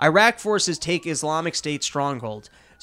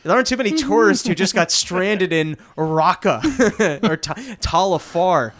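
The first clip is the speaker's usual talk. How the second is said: mock suspicious soldier; 3 semitones higher, 4 dB louder than usual. Iraqi soldier questioning foreign fighter.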